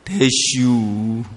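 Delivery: very slow, drawled Chungcheong "되슈"; Chungcheong dialect. Shown as a demonstration. Preacher demonstrates the Chungcheong way of saying it, drawled. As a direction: stretch out "되슈" the Chungcheong way. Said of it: "충청도 발음으로는 뭐라 그래야 돼요".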